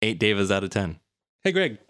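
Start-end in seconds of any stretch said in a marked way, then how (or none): 1.4-1.8 high, loud call across the room. Real, not acted. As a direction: call his name out loud. Calling out to co-host.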